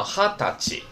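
哈达吉 as three separate, careful syllables; special reading. Shown as a demonstration. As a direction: model 哈达吉 for students to memorize. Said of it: "这是特殊读音". (哈达吉，特殊读音，逐字示范)

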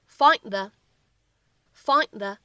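"find the" slowly, d held before the; unreleased d linking. Shown as a demonstration. Teacher modelling the linked "find the" for students. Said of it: "我们可以读成".

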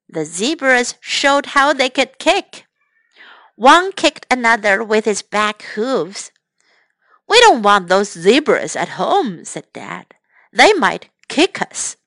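lively storybook reading; bright picture-book narration; reading to children. Acted. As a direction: read it to the little ones with character voices.

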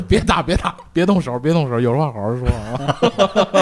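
loud laughing pleading; pleading to stop fight. Retold or imitated. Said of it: "我说".

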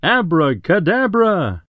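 high, loud magic word; shouted spell. Acted. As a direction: proclaim the spell like a stage witch.

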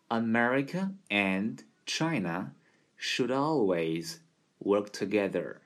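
even pace reading; steady demo. Shown as a demonstration. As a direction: read the sentence at a steady, even rate. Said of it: "匀速的展示一遍".

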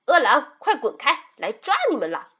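high, loud, forceful warning; menacing shout. Acted. Mother shows how to chase wolves off, shouting threats. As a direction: shout to scare them away.

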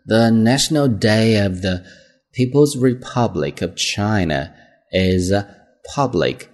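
slow model reading in careful phrases; pronunciation read-through. Shown as a demonstration. Teacher rereading the sentences for pronunciation check, slow and careful. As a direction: read slowly for learners, pausing between word groups. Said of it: "我再读一下，方便大家去做一个发音的确认".

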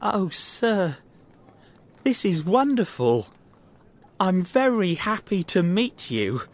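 high, delighted gush; excited. Acted. Little man delighted to meet Holmes, speaking excitedly. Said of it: "said the little man excitedly".

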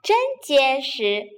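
mildly gleeful, with a little chuckle first; pleased chuckle. Acted. Third pig showing off his new house, pleased chuckle. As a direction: show off with a touch of glee. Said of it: "高兴地笑了起来".

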